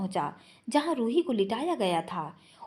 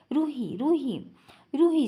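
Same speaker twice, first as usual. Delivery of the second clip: building from urgent calls to a loud cry; calling her name; 4 semitones higher, 3 dB louder than usual. A narrator's reading. Husband calling his wife who will not wake, rising to a loud cry. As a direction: call her name louder each time, the last one high.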